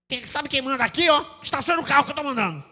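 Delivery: loud, high, hurried mock bossing; bossy shout. Domineering husband imposing himself, shouting out orders. Mimics domineering man asserting authority.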